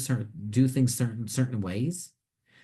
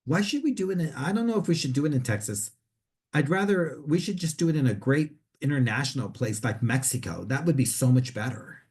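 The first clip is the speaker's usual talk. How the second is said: demanding statement; 4 semitones higher than usual. Acted. New hire at a meeting, demanding Mexico over Texas. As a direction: push your own idea, high and sure of yourself. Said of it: "from one of kind of like a demand".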